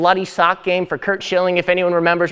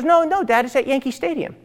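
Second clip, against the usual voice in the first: higher little-sister voice, breaking into a laugh; 5 semitones higher than usual. Retold or imitated. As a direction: voice the kid sister, laughing through it. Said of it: "And she goes".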